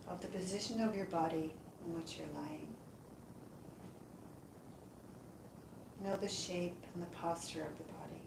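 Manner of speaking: calm, unhurried meditation voice with long pauses; guided yoga nidra. Acted. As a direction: guide them gently into rest, leaving space between phrases. Leads a yoga nidra relaxation.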